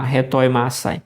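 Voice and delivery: retoimasai with the stress on the syllable ma. Shown as a demonstration. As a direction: lean on ma in retoimasai, the other syllables light. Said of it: "O acento no ma". (retoimasai com a sílaba tônica no ma)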